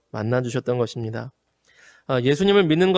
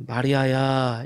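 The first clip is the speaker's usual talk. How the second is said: loving call; 3 semitones lower, much slower than usual. Shown as a demonstration. Jesus calling Mary's name with all-embracing love. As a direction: let the whole love of heaven sit in the name. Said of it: "사랑이 담겨 있었을 거라고".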